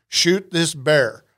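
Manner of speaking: slow, deliberate command; measured, emphatic directive; guide's instruction. Acted. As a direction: spell out the order word by word, slowly. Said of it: "if your guide tells you".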